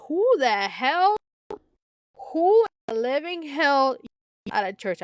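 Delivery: half-acted outraged yell across the church; retold yell. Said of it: "yell across the church".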